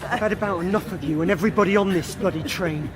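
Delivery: put-on drunk threatening. Drunk man threatening on train.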